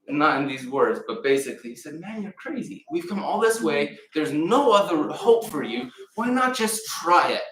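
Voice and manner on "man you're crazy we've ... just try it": pleading servant. Acted.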